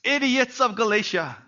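mock-exasperated rebuke of foolish friends; exasperated scolding. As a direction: drag out the dear idiots, then burst with disbelief. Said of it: "He puts it".

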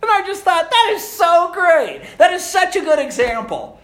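high and loud, laughing through the words; giddy laughing narration; laughing telling. Real, not acted. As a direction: still laughing as you tell it.

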